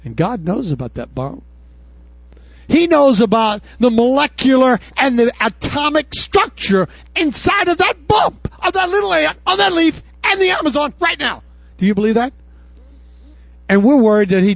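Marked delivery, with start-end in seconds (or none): 2.7-11.4 rising preaching shout. Real, not acted. Preacher rising to full force.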